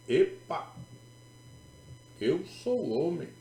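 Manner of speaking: startled protest. Acted. Young man correcting the praying sister, startled protest. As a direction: pull up short and object.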